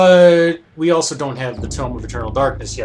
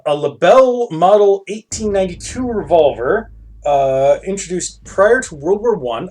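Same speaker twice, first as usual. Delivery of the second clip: raised, measured read-aloud voice; item-description narration; 5 semitones higher, 4 dB louder than usual. Acted. Player reads out the revolver's description, narrating. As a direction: read it out like a catalogue entry.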